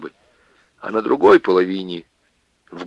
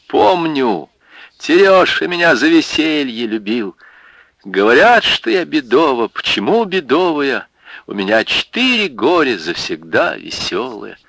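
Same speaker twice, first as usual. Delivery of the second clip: higher, bold and bright; defiant gaiety; 6 semitones higher than usual. Acted. Варвара answering the women, defiant. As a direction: fling it back boldly.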